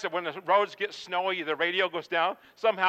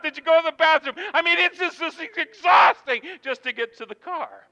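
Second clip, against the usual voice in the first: higher and faster, piling up the chores; exasperated rush; 5 semitones higher than usual. Acted. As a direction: build to a frazzled outburst. Frantic list of packing chores.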